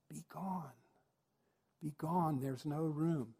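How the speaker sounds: hushed prompt from the wings; feed the line softly, under your breath; offstage prompter. Acted. Prompter in the wings feeding the forgotten line, hushed. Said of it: "the prompter says from the side, from the wing".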